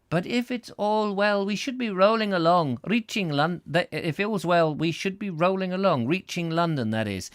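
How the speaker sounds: high, slipping attempt at Scottish; wobbly Scottish accent. Husband phones about arriving in London, shaky Scottish accent. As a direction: lilt it high in an unsure Scots accent. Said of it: "I don't know what accent that turned into".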